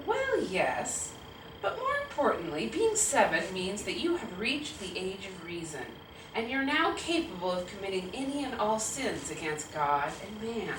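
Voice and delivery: slightly hushed, solemn fatherly explanation; a hint of a dad gravely instructing his child; softly weighty parental pronouncement; lightly voiced earnest father.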